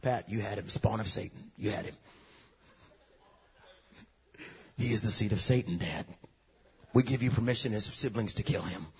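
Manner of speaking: hushed, low tattling to Dad; tattling sister. Retold or imitated. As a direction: sister quietly snitching on Pat to Dad, hushed and sly. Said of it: "she just look at Dad and go".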